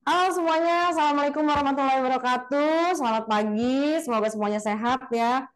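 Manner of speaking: presenter greeting the audience with lively enthusiasm; energetic, enthusiastic presenter. Shown as a demonstration. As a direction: bring energy and spark to the room. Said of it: "kalau misalnya ngebawainnya dengan cara".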